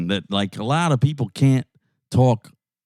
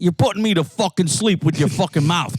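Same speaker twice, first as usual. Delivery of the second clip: higher, pushy wake-up call; rowdy interrupter; 5 semitones higher than usual. Pretend. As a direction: barge in to liven things up. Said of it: "Now I fucking come in and be like".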